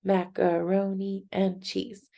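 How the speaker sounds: Macaroni and cheese in six measured beats; syllable by syllable. Shown as a demonstration. Teacher repeating for learners to clap, Macaroni and cheese syllable by syllable. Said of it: "clapping out the syllables".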